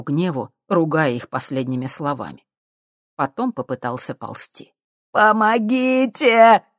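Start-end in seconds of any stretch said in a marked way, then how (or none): 5.1-6.6 slow, high, loud cry for help; drawn-out loud call for help; yelling for help. Acted. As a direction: howl it out into the dark. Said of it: "завопил Витька".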